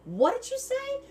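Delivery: a high, startled what did you say; asking the hairdresser, stunned and squeaky; shocked question. Retold or imitated. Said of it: "I look at her, go".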